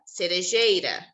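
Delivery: cerejeira drawn out slowly; slow teaching word; slow example word. Shown as a demonstration. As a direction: stretch cerejeira out for the class. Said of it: "Por exemplo".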